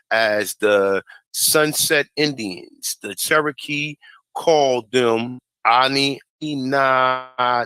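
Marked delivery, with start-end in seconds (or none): 5.7-7.6 halting attempt at "Ani Inatasala"; struggling pronunciation. Real, not acted. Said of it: "I can't pronounce that".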